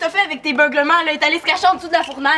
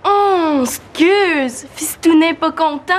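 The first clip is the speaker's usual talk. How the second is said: slow, taunting fake apology; mockingly sorry, needling; mock apology; much slower than usual. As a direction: drag out the teasing question. Throws the taunt back.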